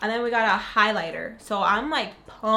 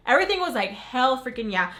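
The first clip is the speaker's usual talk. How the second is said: excited; 3 semitones higher, 4 dB louder than usual. Real, not acted. Gushing over the box.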